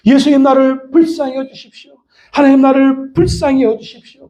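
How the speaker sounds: high, sustained plea; crying out. Acted. Preacher shows how to beg Jesus for mercy, crying out. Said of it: "그렇게 외쳐야 되는 것입니다".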